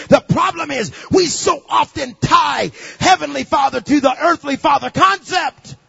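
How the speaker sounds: loud, driving sermon cadence; full-force preaching. Real, not acted.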